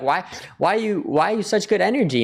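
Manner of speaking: high, eager imitation of curious people; amazed strangers. Strangers asking him about his energy, mock amazement.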